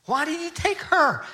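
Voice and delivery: a widower pleading with God through tears; high broken plea. Retold or imitated. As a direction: ask it like a heart breaking. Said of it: "He was just furious with God".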